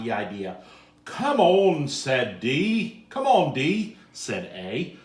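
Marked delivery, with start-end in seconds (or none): 1.0-1.9 loud excited call; eager urging. Acted. 3.1-4.0 loud excited call; eager urging. Acted.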